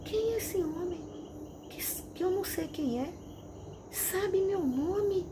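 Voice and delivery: puzzled awe, pitched high throughout; perturbed inner thought. Retold or imitated. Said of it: "Pensei aqui dentro de mim".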